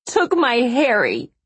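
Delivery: high, drawn-out tearful wail; sobbed. A narrator's reading. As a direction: wail it slowly, as if sobbing. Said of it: "she sobbed".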